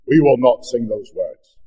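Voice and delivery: slow, measured stern refusal; imitated stern voice, deliberately slow; stern deep voice. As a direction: retell a man's stern command, spaced out word by word. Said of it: "like your voice when you're being stern".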